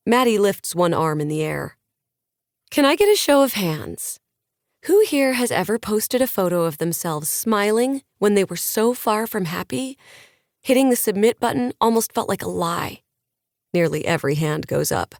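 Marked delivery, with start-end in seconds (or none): 2.7-13.0 lightly raised, bright-eyed speaker voice to a crowd; pep the audience up like a lifestyle guru; a hint of a motivational influencer addressing fans; upbeat influencer on stage.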